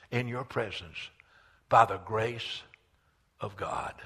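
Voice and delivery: measured, hushed phrases with one swell; solemn preached prayer. Acted. Repentant believer standing before Almighty God, solemn prayer. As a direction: address God humbly, phrase by phrase.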